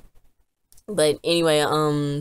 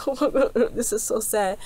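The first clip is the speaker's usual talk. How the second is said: mock crying; 6 semitones higher than usual. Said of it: "crying, like".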